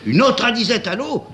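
high, bewildered question; a head waiter asking, bewildered. Acted. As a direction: ask it as if lost. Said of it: "égaré".

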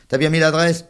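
put-on high, loud kid's taunt; sing-song the name to tease; mocking child voice. A narrator's reading. Charles teasing the little one about his letter, high and loud.

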